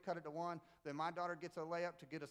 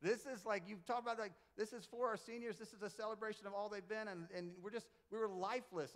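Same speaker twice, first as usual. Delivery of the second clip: mock mad coach; 3 semitones higher than usual. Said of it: "I said".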